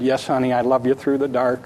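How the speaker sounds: soft, low and gentle; a father's hushed answer to his daughter; tender reassurance. Retold or imitated. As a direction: tell her quietly she is loved.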